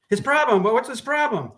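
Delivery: high, puzzled repeat of the question; confused woman. Acted. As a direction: echo it back, baffled.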